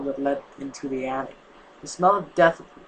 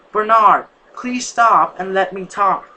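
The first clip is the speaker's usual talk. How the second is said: loud, pleading call after him, slow on the second line; 4 semitones higher, 8 dB louder, slower than usual. A narrator's reading. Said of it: "She called out again".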